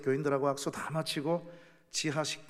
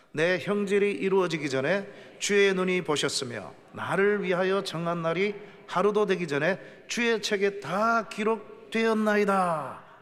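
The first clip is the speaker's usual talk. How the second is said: scripture reading; 4 semitones higher, 6 dB louder than usual. Acted. Preacher leading the congregation in reading the Psalm aloud, solemn and loud. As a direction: read the verse out boldly with the people.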